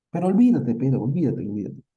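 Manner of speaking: insistent plea. Acted.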